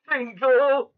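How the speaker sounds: high-pitched, drawn-out exclamation; amused echo. Real, not acted. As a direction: echo the silly word in a high voice. Echoes the AI's slang word.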